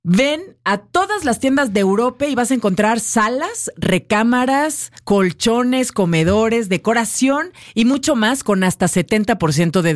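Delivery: chatty sponsor plug with rising list items; radio ad read. Real, not acted. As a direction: sell the furniture sale to listeners. Reads a furniture sponsor spot.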